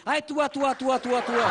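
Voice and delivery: high, squeaky stammered cry of तू आ; mock frightened wife. Lisping wife seeing a rat, squealing. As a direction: shriek तू आ like a startled wife. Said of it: "बीवी कह रही".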